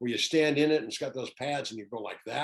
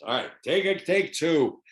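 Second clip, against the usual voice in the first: Clint Eastwood; 6 semitones higher, 8 dB louder than usual. Retold or imitated. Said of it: "He goes".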